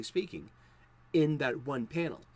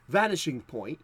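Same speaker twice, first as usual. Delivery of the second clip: put-on British accent. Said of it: "I'm doing my British voice".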